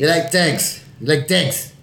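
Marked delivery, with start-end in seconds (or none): 0.3-0.8 higher, put-on gypsy accent; Brad Pitt. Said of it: "you got all fucking Brad Pitt". 1.3-1.7 higher, put-on gypsy accent; Brad Pitt. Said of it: "you got all fucking Brad Pitt".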